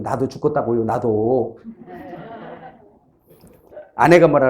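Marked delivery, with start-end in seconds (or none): 0.0-1.6 low, soft acted muttering; inward grumble. Husband answering his wife only inwardly, low grumble. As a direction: grumble it under your breath, pitched down. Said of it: "속으로 그냥".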